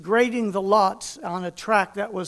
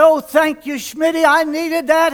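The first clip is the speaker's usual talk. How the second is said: grateful joy; 4 semitones higher, 5 dB louder than usual. Retold or imitated. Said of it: "I said".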